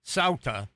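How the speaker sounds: "Ceuta" said as SOW-tuh; demonstrated pronunciation. Shown as a demonstration. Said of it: "that's how it's pronounced".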